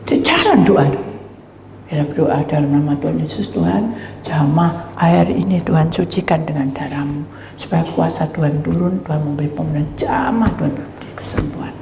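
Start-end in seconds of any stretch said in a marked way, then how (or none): 1.9-11.7 prayer. Acted. Praying over water.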